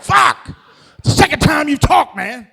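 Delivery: very high, loud shocked yell; startled shout. Retold or imitated. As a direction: jump out of your skin. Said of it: "I'm like".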